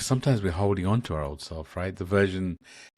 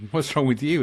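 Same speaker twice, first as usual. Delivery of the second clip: retold exasperated outburst; 7 semitones higher, 5 dB louder than usual. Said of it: "And she's like".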